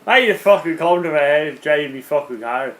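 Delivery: mock Irish accent, lightly done; a bad Irish accent. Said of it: "No, that's Irish".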